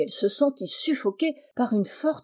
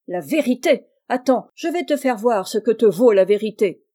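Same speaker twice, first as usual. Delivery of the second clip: louder, raised furious rebuke; angry scolding; 6 dB louder than usual. Acted. Madame Macmish scolding Charles for his letter, furious and loud. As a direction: tear into the little liar. Cousin threatens Charles with rod.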